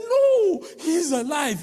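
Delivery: very high, loud cry of joy; excited shout. Retold or imitated. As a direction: burst out the good news. Rushing to tell crying sister.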